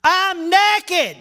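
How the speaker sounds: high, loud sheepish answer; Adam answering. Acted. Preacher voicing Adam's reply, high and loud. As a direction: blurt it out, caught. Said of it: "Adam responded".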